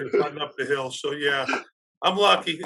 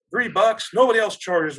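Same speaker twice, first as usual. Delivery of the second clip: indignant retort, higher and louder; mad mom; 6 semitones higher, 6 dB louder than usual. Retold or imitated. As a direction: imitate a mom outraged at the price. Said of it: "she's all mad about paying three bucks".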